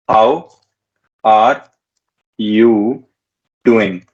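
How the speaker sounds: How are you doing spoken word by word with pauses; each word separated. Shown as a demonstration. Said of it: "slow word-by-word teaching".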